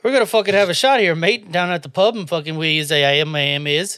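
badly faked English accent; rambling, muddled British accent attempt. Shown as a demonstration. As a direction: babble along in mock English. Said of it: "hit me with your best English accent".

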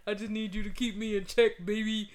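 mocking imitation of her text; mocking girl voice. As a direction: make her sound dumb. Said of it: "that's not how she sound".

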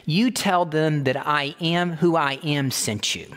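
slow, firm divine command; God answering Moses with unbending authority; direct, powerful God. Acted. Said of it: "in a very direct, powerful voice".

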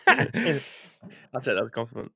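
slow, laughing reply; chuckling through the words. Real, not acted. Laughs at teasing.

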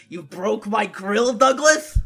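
impression. Shown as a demonstration. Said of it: "so I can, at regular intervals, say".

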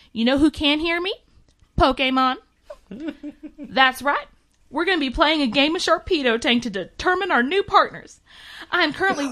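lightly voiced pageant mom, sugary; femme fatale. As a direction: read it as a vain beauty queen. GM voices CC O'Hara letter.

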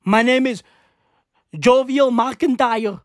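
mock-Irish self-introduction, name drawn out; bad Irish accent. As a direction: announce yourself slowly in a fake Irish accent. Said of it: "What accent is this?".

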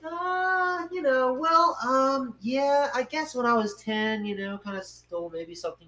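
high, squirming admission; sheepish interviewee caught out, voice pitched high; sheepish high confession. Retold or imitated. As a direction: play the guilty, evasive voice way up. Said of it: "And they're like".

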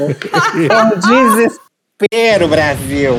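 slow laughing wail of despair. Real, not acted. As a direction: stretch it out while laughing.

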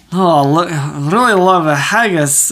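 imitating a failed Scottish accent that comes out Russian; botched Scottish accent. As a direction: do bad Scottish, sliding into Russian. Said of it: "she's trying to do Scottish".

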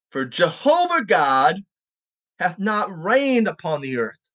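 slow, emphatic Bible reading; scripture reading. Acted. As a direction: read the verse out deliberately, weighting key words. Reads scripture aloud.

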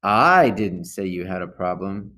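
I didn't say you had a problem, with the first "I" leaned on; stress on I. Shown as a demonstration. Reader showing teens how stress changes meaning, stress on I. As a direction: hit "I" at the start of the sentence. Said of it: "notice how you can change the meaning ... emphasizing a different word".

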